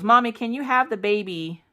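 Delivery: put-on high little-kid voice; child asking mommy. Voices her child's question.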